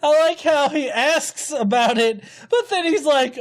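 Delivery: ordinary delivery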